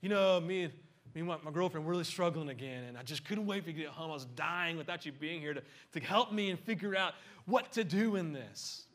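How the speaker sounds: whiny buddy. Retold or imitated. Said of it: "He's like".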